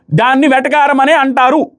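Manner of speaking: retold loud retort. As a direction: lift the pitch and draw it out like a loud comeback. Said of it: "పెద్దగా అన్నాడు".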